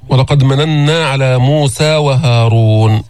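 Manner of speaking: measured tajweed recitation; slow Quran recitation. Shown as a demonstration. Teacher reciting the verse slowly for students. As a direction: recite slowly, each letter given its due.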